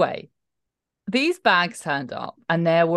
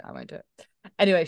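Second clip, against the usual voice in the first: usual speaking voice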